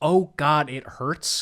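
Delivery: put-on very slow, dragged-out, loud agonized scream. Retelling a movie scene of being melted in a machine: imitating Brad Dourif screaming. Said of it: "he screams".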